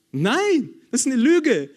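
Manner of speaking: fervent rebuttal to the congregation; emphatic preaching. Acted. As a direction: preach it hard against the lie. Preacher refutes a lie emphatically.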